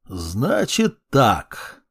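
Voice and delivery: slow, lazy commanding drawl; sneering gloating dark voice. Acted. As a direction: command like a bored dark lord. Necromancer commands.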